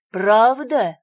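громкий злой окрик; гаркни требовательно. A narrator's reading. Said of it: "орёт он". (орёт на девочку)

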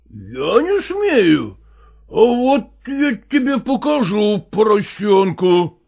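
slow, mildly menacing man's voice; menacing stepfather. Acted. Stepfather advancing on the boy, slow and lightly menacing. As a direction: drag it out as a warning.

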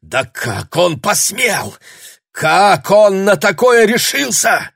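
high, loud, slow outburst; man raging at the news; outraged. A narrator's reading. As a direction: explode in disbelief. Matthew outraged.

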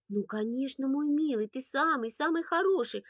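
motherly comforting; soothing mother. A narrator's reading. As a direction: coo to calm an upset child. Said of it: "Мама, пытаясь успокоить Андрейку".

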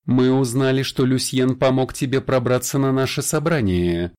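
a hint of a suave vampire; lightly voiced vampire. Vampire Sarin's voice in dialogue. (слегка обозначенный голос вампира)

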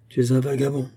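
restrained self-reproach, muttered with tight jaw; tight-jawed bitter accusation; through clenched teeth. A narrator's reading. Joseph accuses his own reflection in the mirror, through clenched teeth. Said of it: "les dents serrées".

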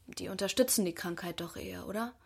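leise, tonlos geflüstert; flüstert die Frage vorsichtig. Acted. Tochter fragt heimlich nach Krankheit. (Tochter flüstert der Mutter ihre Sorge zu, geflüstert)

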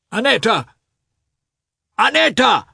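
high, urgent call for his wife; loud calling. Acted. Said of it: "he said loudly".

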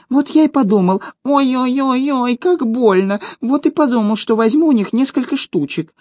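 high pained gnome confession; groaning gnome. Acted. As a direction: confess while clutching a sore belly.

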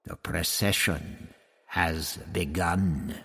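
a hint of a snarling priest; snarling Tlatoxel. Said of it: "he snarled".

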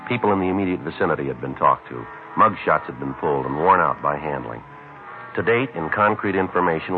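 clipped deadpan police narration; detective narration. Acted. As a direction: narrate it dry and matter-of-fact. Hard-boiled detective narration.

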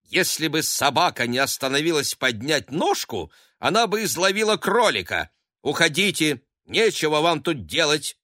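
high, loud rustic scolding; country nurse driving the husband away; angry nurse. A narrator's reading. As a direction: scold him off the doorstep. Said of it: "сердито открывая дверь".

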